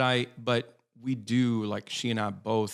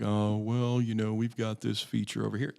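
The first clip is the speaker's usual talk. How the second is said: lightly voiced gloomy donkey; a hint of a mopey Eeyore pitch. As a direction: droop it out like a bored, gloomy salesman. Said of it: "if you talk like Eeyore".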